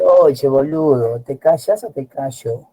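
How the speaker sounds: slow, drawn-out Argentine challenge; Argentine accent. Retold or imitated. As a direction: imitate an Argentine daring someone, slowly. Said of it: "Tiene diferente tono". (imitando a un argentino que desafía, con acento argentino y lento)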